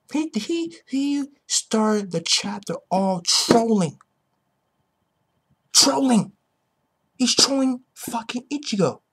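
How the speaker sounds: drawn out, high and slow, then a loud cry of trolling!; mock-outraged rant about trolling; hyped trolling rant. Real, not acted. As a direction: stretch it out and yell trolling. Ranting about Juha trolling.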